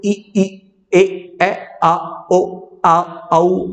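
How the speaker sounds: "ई, ई, ए, ए, आ, ओ, आ, औ" each sounded as a separate pure vowel; isolated vowel sounds. Shown as a demonstration. Teacher shows students the basic sounds, "ई, ई, ए, ए, आ, ओ, आ, औ" as separate vowels. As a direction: recite "ई, ई, ए, ए, आ, ओ, आ, औ" one by one with gaps. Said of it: "हमारे sound ही तो हैं".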